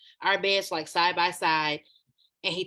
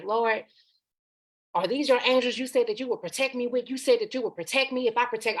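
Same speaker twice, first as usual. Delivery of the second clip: raised-pitch imploring prayer, retold; 4 semitones higher than usual. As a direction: act out mom questioning the Lord. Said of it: "she praying".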